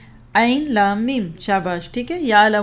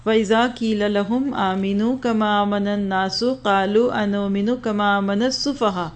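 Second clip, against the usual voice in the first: measured recitation of the verse; Quran recitation. Acted. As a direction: recite the verse in a chanting style. (قرآن کی تلاوت کا انداز)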